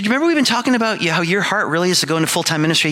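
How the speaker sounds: a hint of his wife gently reminding him; wife's voice. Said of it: "So he said".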